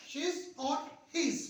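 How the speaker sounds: she's and his said very slowly, x0.4 pace; slow model. Shown as a demonstration. Teacher models she's and his slowly for students. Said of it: "इस तरह से आप pronounce करेंगे".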